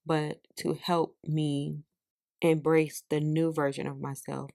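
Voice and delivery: measured, heartfelt reading aloud of a written prayer; journal reading. Real, not acted. Reads own journal aloud.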